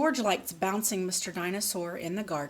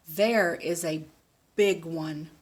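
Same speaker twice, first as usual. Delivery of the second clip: Daddy Pig voice; 2 semitones lower, 5 dB louder, slower than usual. Acted.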